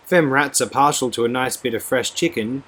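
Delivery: put-on high, loud menacing old woman; menacing crone. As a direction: taunt her with cruel glee. Hannah menaces the captive girl.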